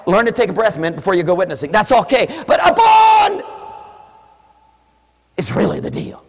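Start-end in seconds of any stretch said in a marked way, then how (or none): 2.5-3.4 high, loud, slow upon; preacher's emphatic shout; shouted correction. Real, not acted. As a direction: hammer the word upon. Preaching climax.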